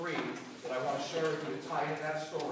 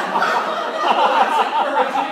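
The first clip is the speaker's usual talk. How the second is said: slow, loud, laughing irony; slow sarcastic line laughing; laughing sarcasm; 9 semitones higher, 16 dB louder, much slower than usual. Real, not acted. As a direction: say it through laughter, deadpan sarcastic.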